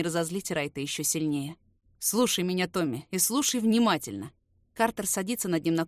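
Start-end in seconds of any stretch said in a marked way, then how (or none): 2.0-4.3 cold and level, no emotion; dry, even voice. Acted. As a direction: state it flatly, menace underneath. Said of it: "Говорит ровно своим сухим, равнодушным голосом".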